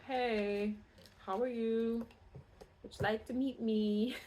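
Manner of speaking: lightly put-on silly come-on voice; silly suitor. Reader imitates someone from the past reaching out, silly suitor voice. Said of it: "I hope they don't speak like that".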